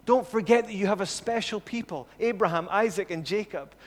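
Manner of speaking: insistent acted appeal, starting high; appealing to God. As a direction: plead with God to remember. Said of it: "He appeals to God's people".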